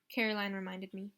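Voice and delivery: usual speaking voice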